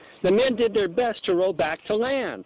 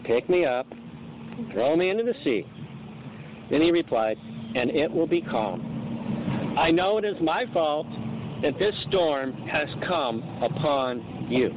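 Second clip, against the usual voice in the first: calmly; 3 semitones lower than usual. Acted. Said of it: "but I'm gonna read it that way".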